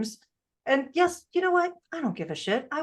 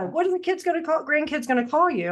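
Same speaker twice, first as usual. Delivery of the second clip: higher-pitched quoted question; daughter's question; 6 semitones higher than usual. Retold or imitated. Daughter asks mom about a grandkid name, higher-pitched questioning. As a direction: imitate a daughter asking, pitched up. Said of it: "my daughter looks at me and says".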